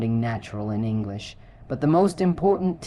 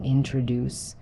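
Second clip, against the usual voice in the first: "introduce" stressed on the final "duce"; careful "introduce", weight falling on "duce"; last-syllable stress. Shown as a demonstration. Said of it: "stress is on the last syllable".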